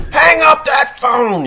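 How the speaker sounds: high, loud, slow furious yell; angry cop shout. Retold or imitated. Cop yelling at the driver on the phone, furious shout. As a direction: bark it like an enraged cop. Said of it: "he comes unglued".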